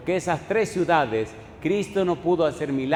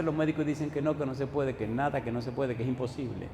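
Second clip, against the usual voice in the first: softer, subdued voicing of a tearful wife; a touch of sorrow, not real sobbing; retold tearful plea; 7 dB quieter than usual. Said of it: "ella viene llorando y me dice". (imitación suave de una mujer llorosa)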